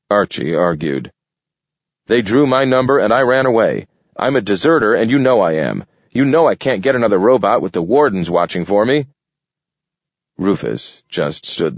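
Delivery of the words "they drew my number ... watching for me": fast, anxious raccoon begging; desperate raccoon. Acted. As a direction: rattle it off, panicking at being left. Archie's desperate argument.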